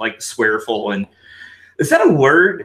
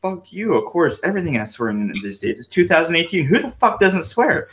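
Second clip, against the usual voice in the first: retorting; 5 semitones higher than usual. Retold or imitated. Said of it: "I'm like".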